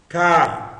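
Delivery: CAI as one long, loud diphthong; long syllable. Shown as a demonstration. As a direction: hold CAI in a single gliding syllable. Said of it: "é uma sílaba longa".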